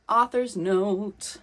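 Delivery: slow dramatic announcement; announcer voice. Acted. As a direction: announce it slowly, grandly. Announcing the author's note.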